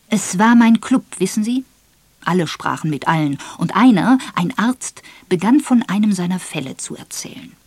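animated club raconteur, lightly voiced; anecdote-telling major. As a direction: launch into the tale with emphatic key words. Major tells his murder anecdote.

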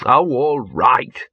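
weary sigh. Acted. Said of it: "Gaspode sighed".

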